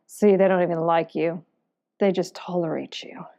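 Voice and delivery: understated nagging inner voice; little inner voice. Acted. Depressed inner voice to the adventurer at breakfast, understated little voice. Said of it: "you hear the voice again going".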